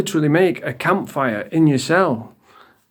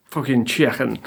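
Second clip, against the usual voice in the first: lower, grumbled echo of Scouse "chicken"; mocking Scouse accent; 4 semitones lower, 3 dB quieter than usual. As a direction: repeat the Scouse vowels with scorn. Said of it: "they don't know what vowels do".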